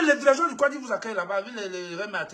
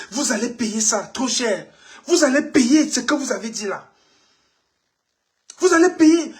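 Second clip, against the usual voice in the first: building threat; 4 dB louder than usual. Real, not acted. Threatening those who attacked Papa Kanto, rising anger. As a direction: start cold, end hitting them hard.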